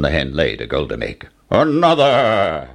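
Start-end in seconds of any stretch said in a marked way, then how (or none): 1.5-2.7 giant's order. Acted. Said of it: "ordered the giant".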